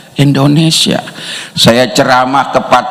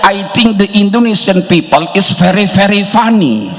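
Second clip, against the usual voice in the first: Australian's reply; 4 semitones higher than usual. Retold or imitated. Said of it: "Apa kata dia?".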